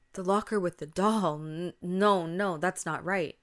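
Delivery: loud, horrified disbelief. Acted. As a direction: protest as the horror sinks in.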